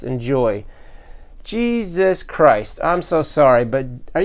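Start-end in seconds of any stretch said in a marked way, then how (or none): 1.4-2.8 slow, drawn-out stunned exclamation; a fan floored by the custom figures; awestruck. Real, not acted. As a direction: let it stretch out in disbelief.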